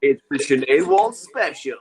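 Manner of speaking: slow mock announcer; show announcer. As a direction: stretch out the show title like an announcer.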